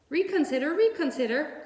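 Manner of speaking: high, loud honking plea; goose crying out. A narrator's reading. Goose begging Wilbur to reconsider. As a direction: cry out a last plea. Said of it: "cried the goose".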